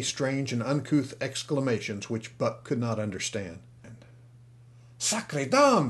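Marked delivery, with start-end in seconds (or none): 5.0-5.9 high startled French cry; exclamation cry. Acted. Little Frenchman spots Buck and cries out, excited. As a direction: burst out at first sight of the dog. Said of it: "he cried".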